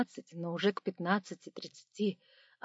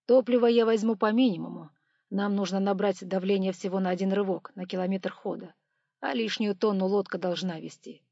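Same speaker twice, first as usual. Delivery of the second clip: engineer voice; 4 dB louder than usual. Acted. Engineer lectures on calculations.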